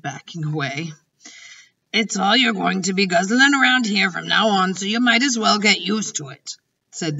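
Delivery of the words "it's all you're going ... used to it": lightly voiced insistent giant. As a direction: lightly play a giant laying down the facts. Voices the giant pressing food on Sophie.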